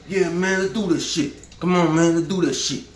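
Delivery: high, loud eager agreement; hyped street guy. Pretend. A man on the corner eagerly agreeing to be on TV, loud.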